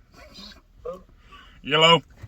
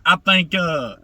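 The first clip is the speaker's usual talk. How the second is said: fake promoter. A prankster poses as promoter Mike Mason on a phone call to a wrestler, lightly voiced. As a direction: play the confident booker pitching a job. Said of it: "can I be, uh, Mike Mason".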